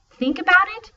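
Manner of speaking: high, loud questioning "Think about it?"; incredulous mocking. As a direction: scoff at the clue. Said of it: "Nia insisted".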